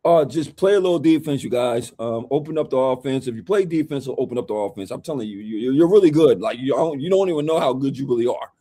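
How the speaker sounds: lightly voiced coach giving advice; Mike Brown. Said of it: "Hold up, Mike Brown, what was you saying".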